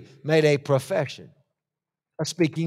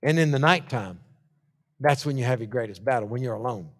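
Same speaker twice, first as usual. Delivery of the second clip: hushed; 7 semitones lower, 7 dB quieter than usual. Acted. Hushed sermon moment.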